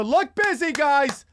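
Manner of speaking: a light high-voiced boss urging idle staff; mildly mock a manager telling staff to look busy; Chelsea Clinton.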